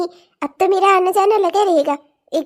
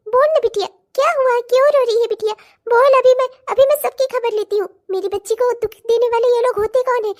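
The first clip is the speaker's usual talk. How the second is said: alarmed worry; 4 semitones higher than usual. Acted. Mother alarmed at her crying daughter, anxious pleading. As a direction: press her anxiously to say what's wrong.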